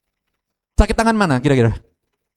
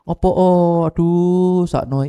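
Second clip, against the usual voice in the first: acted pitying coo; drawn-out sympathetic "aduh"; comforting crying child; 4 semitones higher, much slower than usual. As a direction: fuss tenderly over a crying child. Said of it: "lah, anak nangis".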